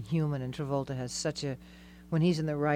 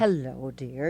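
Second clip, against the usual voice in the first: elocution voice; 2 semitones lower, much slower than usual. Retold or imitated. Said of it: "definite elocution voice".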